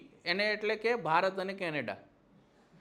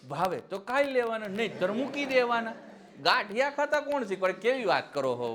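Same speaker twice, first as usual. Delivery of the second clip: indignant raised voice; 5 semitones higher, 5 dB louder than usual. Real, not acted. Ridiculing Modi's claim.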